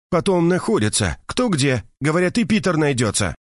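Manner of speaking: high, indignant gossiping woman; indignant Mercedes. A narrator's reading. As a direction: pour out the outrage to a friend. Mercedes complains about police. (возмущённая Мерседес жалуется подруге)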